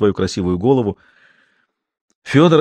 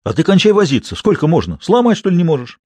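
irritated retort; 7 semitones higher than usual. Acted. Fedor nagging his fumbling friend, high exasperated snap. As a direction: hurry him up, exasperated. Fedor snaps back during break-in.

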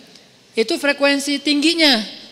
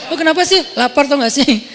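higher, louder irritated complaint; hammed-up hungry irritation; mock hangry snap; 5 semitones higher, 5 dB louder than usual. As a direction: grumble like someone cranky from hunger. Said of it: "muka lapar tuh kayak mau marah".

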